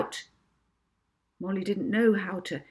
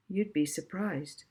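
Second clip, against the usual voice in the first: cool; 4 dB quieter than usual. Acted. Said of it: "said Molly coolly".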